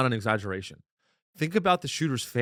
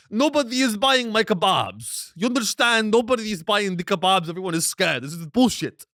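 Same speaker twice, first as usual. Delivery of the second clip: indignant vendor in a put-on Arab accent, pitched up; mock Arab accent; 7 semitones higher, 3 dB louder than usual. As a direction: complain in a hammed-up Arab accent. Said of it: "do the Arab accent".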